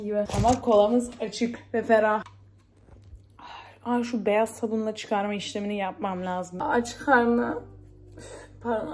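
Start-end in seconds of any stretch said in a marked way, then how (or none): 3.8-7.6 accented Turkish, slightly raised level; regional accent. Real, not acted. Vlogger slipping into dialect while talking to herself, accented. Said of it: "aksanlı konuşmayacağım".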